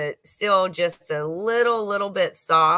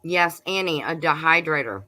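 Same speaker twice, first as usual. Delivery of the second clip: talking with a mouth full; chewing tomato while talking. Real, not acted. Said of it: "Sorry, I'm munching on that tomato".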